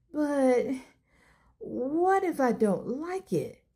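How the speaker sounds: mild wobble. Acted. Nervous boy asks his parents about preschool, mild wobble. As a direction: let the voice tremble just a touch with worry. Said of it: "Kavir's voice wobbled".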